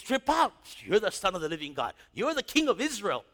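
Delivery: easily won excited believer; amazed. Retold or imitated. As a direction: blurt out wonder. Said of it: "He was so easy".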